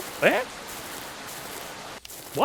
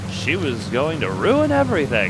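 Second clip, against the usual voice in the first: pleading killer; 9 semitones higher, 4 dB louder than usual. Acted. Killer pleads with the cop, high and desperate. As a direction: justify the murder, pitched up and pleading.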